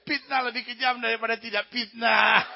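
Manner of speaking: put-on comic Batak accent, emphatic P for F in "Fitnah"; angry Batak accent. Batak man pronouncing on slander, comic angry Batak accent. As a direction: declare it like a mock-offended Batak. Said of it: "kayak orang Batak marah-marah".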